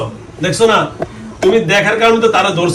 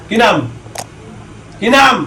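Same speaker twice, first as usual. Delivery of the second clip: shouting; 4 semitones higher than usual. Real, not acted. Exorcist demanding the name.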